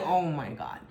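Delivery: low-pitched, unimpressed mimicry; nonchalant. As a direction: imitate his weary lack of concern. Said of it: "his response was so nonchalant".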